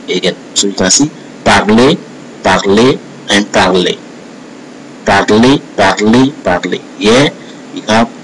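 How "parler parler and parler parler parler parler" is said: "parler" repeated as "par-lay"; French "parler", final R silent; French E like "may". Shown as a demonstration. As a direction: drill "parler" with the same "ay" ending each time. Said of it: "sound like the same thing".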